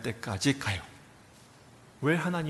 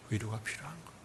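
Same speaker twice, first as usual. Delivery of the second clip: quiet answer; 4 semitones lower, 12 dB quieter, faster than usual. Shown as a demonstration. Softer repeated answer.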